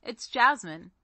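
podcast promo voice; scripted show intro. Acted.

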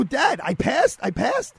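high-pitched, overjoyed cry to Dad; excited disbelief. Retold or imitated. Son on the phone asking father about the exam, excited disbelief. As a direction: voice leaping up in amazed joy. Retells learning he passed the exam.

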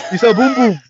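high-pitched cartoonish alien voice; Gungan voice. Fan quoting the Gungan battle, high goofy voice. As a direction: squeal it like a silly Gungan.

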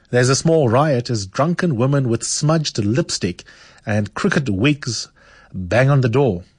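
a lively reading of a story's opening. Acted. Host reads the opening of Discovering Home, lively. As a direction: read it out to pull listeners in.

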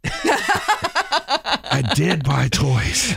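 laughing. Real, not acted. Laughing confession.

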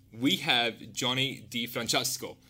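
put-on name rolled out slowly in Italian accent. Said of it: "I had to put my Italian accent on".

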